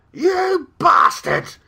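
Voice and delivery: loud, high, drawn-out demon yell with an Australian lilt; Australian-lilted demon curse. A narrator's reading. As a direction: curse furiously in an Australian accent. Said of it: "Its accent had an Australian lilt".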